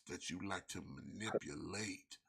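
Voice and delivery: slow, drawn-out seductive delivery; sensual voice. Pretend. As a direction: savor each word slowly. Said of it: "Oh, so sensually".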